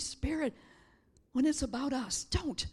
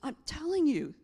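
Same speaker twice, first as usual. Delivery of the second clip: tearful. Real, not acted. Dad nearly died, tearful.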